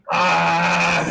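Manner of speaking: loud, drawn-out groan of frustration; frustrated groan. Real, not acted. Host sympathizes over a missed first name, frustrated groan. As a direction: let out a long exasperated "ah". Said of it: "that's frustrating".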